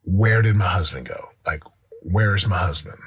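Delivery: wife's question, retold low and gently; simple, non-condescending question. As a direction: ask it simply, without condescension. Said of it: "she wasn't condescending or anything like that".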